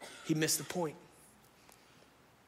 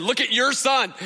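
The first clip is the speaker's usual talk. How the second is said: wife's exasperated quote; 9 semitones higher, 10 dB louder than usual. Retold or imitated. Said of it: "my wife just sent me a picture and said".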